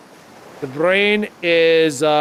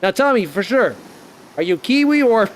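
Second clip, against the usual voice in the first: pitched-up mock Antipodean accent, Australian or Kiwi; Kiwi or Aussie impression; 5 semitones higher than usual. Streamer asking if they are Kiwi, mock Antipodean accent. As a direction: tease in a put-on Aussie-Kiwi twang. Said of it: "hope you liked my, uh, impression".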